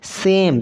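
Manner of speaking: सेम sounded out as a single syllable; read out as one syllable. Shown as a demonstration. Teacher answers how to read it, sounded out. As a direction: say सेम carefully in one beat. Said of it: "इसको क्या पढ़िएगा".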